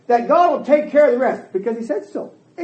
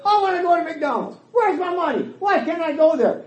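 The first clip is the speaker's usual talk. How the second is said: put-on higher-pitched child's pleas; a hint of a nagging child, pitched up; lightly voiced demanding kid; 5 semitones higher than usual. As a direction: imitate kids pestering a parent. Voicing demanding children at home.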